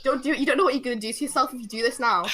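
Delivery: mock inner plea, rising as it repeats; pleading warning. Silently willing the man not to sit, mock pleading. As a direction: beg him off, building in pitch.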